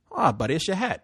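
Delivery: lightly imitated Puerto Rican cabbie; casual mock Puerto Rican driver; bad Puerto Rican accent. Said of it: "I'm gonna do it bad accent".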